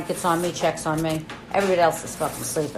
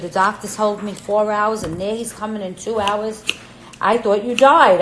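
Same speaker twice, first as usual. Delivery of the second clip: retold frantic yell; 4 semitones higher, 6 dB louder than usual. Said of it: "she's fucking screaming".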